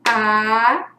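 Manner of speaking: "A" held long as one separate sound; sílaba isolada. Shown as a demonstration. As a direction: sound out "A" slowly, on its own. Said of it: "Você me entendeu, ó". ("A" bem alongado, um som só)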